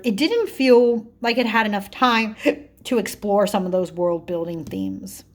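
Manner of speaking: talking through hiccups; hiccuping mid-sentence. Real, not acted. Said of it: "I'm, like, hiccuping all over the place".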